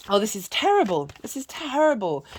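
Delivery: voicing the neighbors, rising to a high pitch in dismay; fretting neighbors. Storyteller voicing worried neighbors, hammed-up dismay. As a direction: neighbors wail that it is terrible. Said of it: "and the neighbors say".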